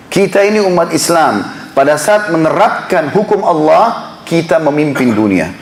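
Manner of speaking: each word laid down slowly and firmly; slow repeated emphasis. Shown as a demonstration. Preacher repeating his point to the congregation, slow and weighty. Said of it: "Saya ulangi".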